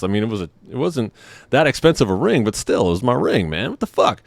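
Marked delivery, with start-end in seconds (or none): 3.7-4.2 mock outrage. Outrage at ring theft.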